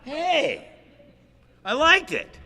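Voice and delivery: comic high-voiced giddy admission; sheepish admission. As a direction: squeak out a confession you liked it. Comic admission of liking hugs.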